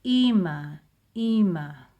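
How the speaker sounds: "Ima" said whole, stress on "ma", a Hebrew i and a; whole word blended. Shown as a demonstration. Teacher blending the syllables into the whole word Ima. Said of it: "I, ma".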